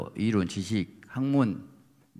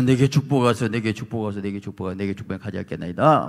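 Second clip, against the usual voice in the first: loud begging that fades over the repeats; cling and beg, starting loud then wearing out; pleading Jacob; 4 dB louder than usual. Acted. (매달려 간청하는 야곱, 점점 잦아들게)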